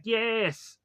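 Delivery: high-pitched, drawn-out yes; a storyteller's mock cheer at normal volume; retold triumphant cheer. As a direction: stretch it out high, imitating a triumphant hero. Retold Turbo Man tossing doll up.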